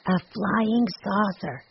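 slow, solemn pronouncement; slow and deadly serious child. A narrator's reading. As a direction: draw it out gravely, like a boy revealing a mystery. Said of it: "he replied solemnly".

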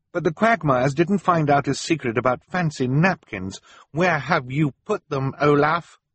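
put-on high, urgent child's demand; accusing child.

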